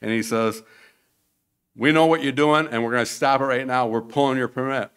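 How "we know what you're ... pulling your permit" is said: loud, high official laying down the law; forceful mock official shout; stern threat. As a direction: bark the warning at them. Official threatens to stop building.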